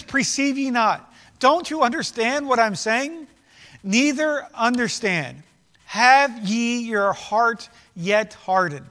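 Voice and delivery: slow, weighty King James reading; slow scripture reading. Acted. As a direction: draw each line out solemnly. Reads scripture slowly.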